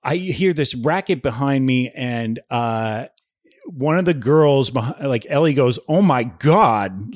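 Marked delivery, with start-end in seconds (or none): 5.9-7.2 slow, drawn-out "oh my God"; stretched-out mock gasp of disbelief; retold shocked exclamation. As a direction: imitate a girl's stunned cry without shouting. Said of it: "like that".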